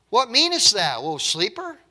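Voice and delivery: high, loud rebuking question; indignant captain. Acted. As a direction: call out in astonishment to a sleeping man. Reads the captain rousing Jonah.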